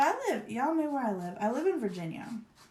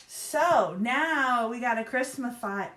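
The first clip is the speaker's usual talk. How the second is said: drawn-out word; 3 semitones higher, 6 dB louder, slower than usual. Shown as a demonstration. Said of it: "Is that a word?".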